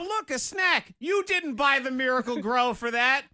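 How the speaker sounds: high, mock-gleeful squirrel; squirrel's voice. Host voicing the squirrel eating their tomatoes, high and cheeky. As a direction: voice a cheeky squirrel, pitched right up.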